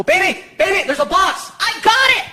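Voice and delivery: high, rising alarm; urgent warning. Retold or imitated. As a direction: warn her fast before she hits it. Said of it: "and I go".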